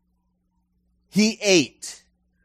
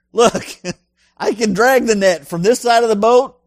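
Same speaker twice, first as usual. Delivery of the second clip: exasperated Peter; 4 semitones higher than usual. Acted. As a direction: insist you know your trade, with a short laugh. Peter protesting to Jesus.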